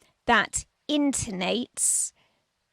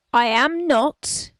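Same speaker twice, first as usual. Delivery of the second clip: slow, louder, stressing NOT; emphatic; 3 semitones higher, 5 dB louder, slower than usual. Real, not acted. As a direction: lean hard on not. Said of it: "I repeat".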